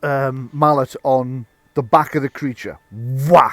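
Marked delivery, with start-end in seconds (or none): 2.9-3.5 loud punched hit sound; sudden emphatic burst; impact word. Acted. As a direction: land it like a mallet blow. Game master voices a mallet blow.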